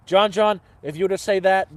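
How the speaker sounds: a hint of an Irish grandfather calling John; grandfather's Irish accent. Retelling grandfather's advice to viewers, mild Irish accent. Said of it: "He used to say that with an Irish accent".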